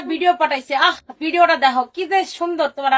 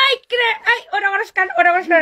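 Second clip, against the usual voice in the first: yelling wife; 3 semitones higher than usual. Retold or imitated. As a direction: shout it across the room. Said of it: "এই চিল্লানি".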